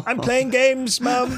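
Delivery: put-on high innocent kid voice; childish voice. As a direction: play the caught kid, all innocence. Voicing his childhood self to mum.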